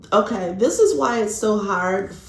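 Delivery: put-on a light, playful Irish accent. Tarot reader telling viewers why this is hard, in an Irish accent. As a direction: slip into a brief Irish lilt without meaning to.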